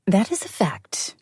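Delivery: breathy, slow amused agreement; a hint of laughter agreeing with her friend; snorting laugh. A narrator's reading. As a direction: let a snort of laughter carry the words. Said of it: "I snorted with laughter".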